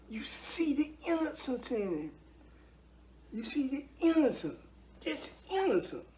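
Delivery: breathy near-whisper, rising high on innocence; hushed, wondering voice; hushed awe. Real, not acted. Tender awe over a newborn.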